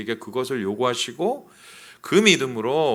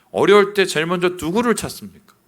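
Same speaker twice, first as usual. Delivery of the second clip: 어려울 stressed, louder; louder insistent; 5 semitones higher, 7 dB louder than usual. Real, not acted. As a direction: push the question harder. Repeated question louder. (더 크게 강조해서 다시 묻기)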